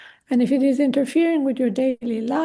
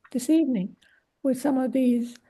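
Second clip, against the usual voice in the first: usual speaking voice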